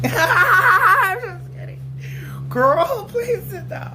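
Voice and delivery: breathless laughing whisper. Real, not acted. Backing off her joke to Kendall, laughing. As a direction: giggle out the retraction.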